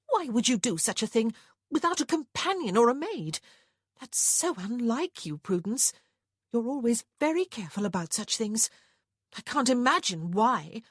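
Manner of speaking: high, loud sisterly protest; crying out. A narrator's reading. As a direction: exclaim in baffled dismay. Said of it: "her sister cried".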